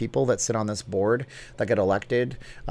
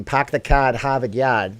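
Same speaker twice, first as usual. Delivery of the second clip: louder mock Boston accent; 4 dB louder, slower than usual. Streamer attempting the famous Boston line, mock Boston accent. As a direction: punch out a bad Boston accent with dropped r's. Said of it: "I can't do a Boston accent".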